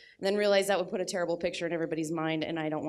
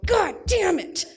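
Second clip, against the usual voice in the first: much higher, louder slammed-door curse; angry kid yell; 13 semitones higher, 8 dB louder, slower than usual. Retold or imitated. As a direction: yell it like a pissed-off five-year-old. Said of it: "and he'll go".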